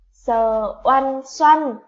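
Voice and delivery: sờ oăn xoăn spelled syllable by syllable, very slow and loud; slow spelling aloud. Shown as a demonstration. Teacher spells xoăn for pupils, slow and loud. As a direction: drag out each sound of sờ oăn xoăn for the class. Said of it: "tiếng xoăn sẽ được đánh vần như thế nào".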